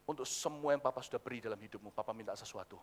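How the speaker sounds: very low, soft fatherly request; solemn father. Acted. Father asking his child for one thing, solemn and hushed. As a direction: ask quietly and low as an old father.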